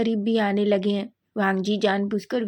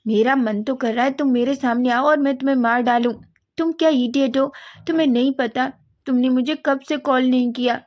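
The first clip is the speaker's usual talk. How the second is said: louder, raised angry telling-off; angry scolding; 3 semitones higher, 5 dB louder than usual. Acted. Sister scolding Wang Ji for forgetting her, angry and loud. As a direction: scold him hard for not calling. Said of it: "आप गुस्सा मत होइए".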